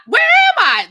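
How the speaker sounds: high, loud breathless movie heroine line; mock dramatic gasp. Telling a friend what the heroine should have said, hammed up. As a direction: ham it up like a waking heroine.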